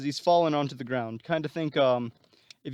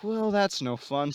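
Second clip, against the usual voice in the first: unimpressed quip; 6 semitones higher, slower than usual. Retold or imitated. Spidey quips after Electro vanishes.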